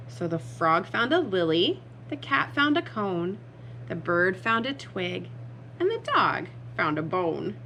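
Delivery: animated picture-book reading; spring the surprise on young listeners; lively story narration. A narrator's reading. Reader revealing the frog to children, lively narration.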